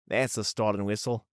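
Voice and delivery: lightly put-on Aussie voice; amateur Australian impression of a coworker; attempted Australian accent. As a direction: have a go at a casual Aussie accent. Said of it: "not sure how good that accent was".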